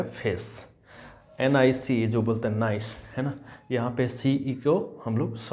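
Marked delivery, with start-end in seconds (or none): 0.0-0.7 "फेस" softer, ending in S; pronunciation demo. Shown as a demonstration. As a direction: model "फेस" quietly with final S. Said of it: "यहाँ पे क्या हो जाएगा".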